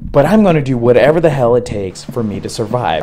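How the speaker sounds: emphatic, building retold resolve; determined vow. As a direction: drive it home, fighting to survive. Vowing to survive underwater.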